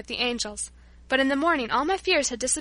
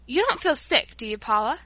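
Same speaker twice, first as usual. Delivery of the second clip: anxious. Acted. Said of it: "in an anxious tone".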